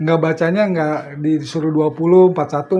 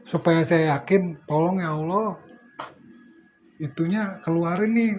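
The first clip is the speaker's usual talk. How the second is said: low, quiet pleading prayer; soft mock prayer; 3 semitones lower, 8 dB quieter than usual. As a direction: murmur a hopeful request to God. Mock prayer of an ojek driver.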